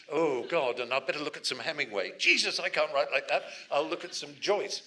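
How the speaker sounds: hammed-up rising exasperation; mock writer's panic. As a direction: fret aloud like a despairing novelist. Acting a panicking writer's inner monologue.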